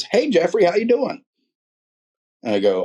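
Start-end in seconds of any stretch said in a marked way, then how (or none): 0.0-1.2 imitating an odd voice much higher; weird phone voice. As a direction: mimic the strange greeting up high. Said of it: "He answers the phone with the weirdest voice".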